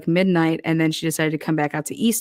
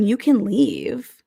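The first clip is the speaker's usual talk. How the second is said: You can leave drawn out slowly, stressing can; slow pointed warning; 4 semitones higher, much slower than usual. Pretend. To Sean threatening to leave, slow pointed warning. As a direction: drag it out as a dare. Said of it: "then I'd be hella pissed".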